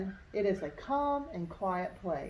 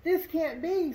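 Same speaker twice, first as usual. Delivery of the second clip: much higher, sputtering protest; sputtering disbelief; 8 semitones higher than usual. A narrator's reading. Spoonbill losing the contest, high sputtering disbelief. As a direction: splutter it out in shock. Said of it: "sputtered the spoonbill".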